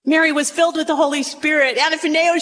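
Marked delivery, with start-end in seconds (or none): none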